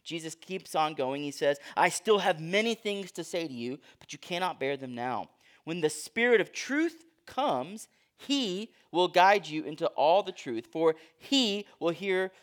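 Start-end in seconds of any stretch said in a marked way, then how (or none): 1.8-12.3 HE stretched and set apart; emphatic reading. Shown as a demonstration. Preacher reads the Spirit of truth passage aloud, emphatic. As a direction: read with weight, holding each "he". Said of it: "I'm gonna read it with emphasis".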